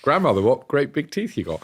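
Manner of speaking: giggling through the line; fairy-tale words through a laugh; laughing fairy-tale quote. Acted. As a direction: read it laughing at yourself.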